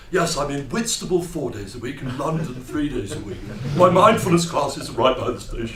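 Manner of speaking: lightly voiced self-satisfied old bore, gassing away; a hint of a chattering mindfulness teacher. Old bore gassing to a trapped stranger, lightly put-on chatty voice. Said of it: "gassing to the poor bloke".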